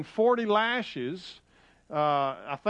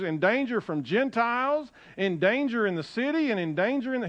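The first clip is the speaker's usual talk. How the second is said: higher-pitched insistent list of dangers; scripture reading; 5 semitones higher than usual. Acted. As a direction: drive home each repeated phrase from the pulpit. Reads scripture aloud to congregation.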